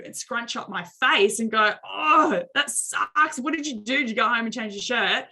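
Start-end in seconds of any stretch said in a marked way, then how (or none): 1.8-5.3 high, bright, overplayed concern; exaggerated sympathy. Shown as a demonstration. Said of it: "I can choose to exaggerate a response".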